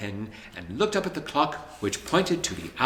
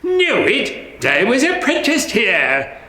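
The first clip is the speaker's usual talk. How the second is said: high, astonished exclaim; the old place, suddenly known; surprised recognition; 11 semitones higher, 6 dB louder, slower than usual. A narrator's reading. Scrooge startled to see his old workplace, high and astonished.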